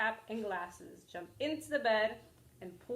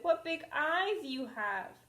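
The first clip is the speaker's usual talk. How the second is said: put-on wondering girl; 7 semitones higher, 4 dB louder than usual. Girl marvels at Granny.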